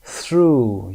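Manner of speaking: "through" slowly, ending in long OO; OUGH as OO. Shown as a demonstration. Teacher repeats the word for learners, long OO. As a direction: model "through" with silent GH. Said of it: "Through صدای او یو جی اچ ما صدای".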